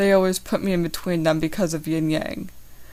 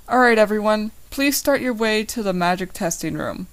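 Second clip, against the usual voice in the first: yelling; 3 semitones higher than usual. Acted. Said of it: "yells Paul Diamondship".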